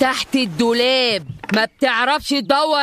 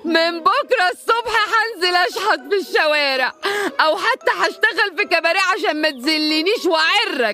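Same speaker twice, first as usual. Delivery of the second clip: higher, sobbing through the words, overplayed; mock crying; 5 semitones higher than usual. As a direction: wail it like a melodrama heroine. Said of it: "انت بتعيطي؟". (بكاء تمثيلي مبالغ فيه)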